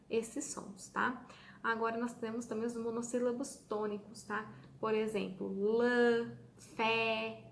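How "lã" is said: lã said louder with mouth wide open; open strong sound. Shown as a demonstration. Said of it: "tá vendo que a gente abre a boca bem pra falar".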